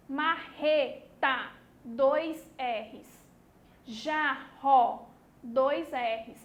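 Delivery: each word drawn out slowly for the class; slow word reading. Shown as a demonstration. Teacher reading the word list aloud to pupils, slow and emphatic. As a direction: stretch every word so the R is heard. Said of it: "vamos fazer a leitura em voz alta".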